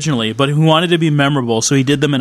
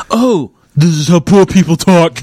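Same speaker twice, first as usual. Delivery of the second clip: louder hammed-up Cockney voice; mock Cockney; 2 semitones higher, 5 dB louder than usual. Mocking Stallone discovering Cockney, louder. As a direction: ham up a poor Cockney. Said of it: "So this one is just like".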